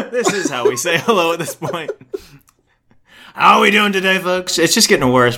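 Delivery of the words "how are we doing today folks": Trump impression. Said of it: "My Trump impression".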